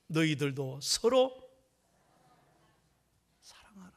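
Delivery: slow, fading into a whisper; hushed divine command. Retold or imitated. God's command, quoted after shouting.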